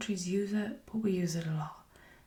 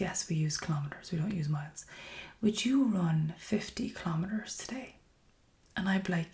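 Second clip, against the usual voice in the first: whisper. Real, not acted. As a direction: breathe every word close to the mic. ASMR whisper video.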